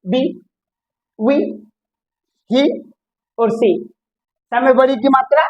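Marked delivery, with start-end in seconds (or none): 0.1-3.7 बी, वी, ही, सी with a long "ee"; long ee vowel. Shown as a demonstration. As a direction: draw out the "ee" in बी, वी, ही, सी. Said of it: "दीर्घ ही हो जाएगा".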